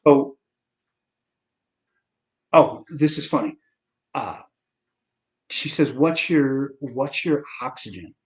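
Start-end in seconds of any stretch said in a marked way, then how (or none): 5.9-8.1 lightly imitated Massachusetts accent; slow down into a hint of Massachusetts. After-hours doctor's line asks for oxygen, Massachusetts accent. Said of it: "she has a Massachusetts accent".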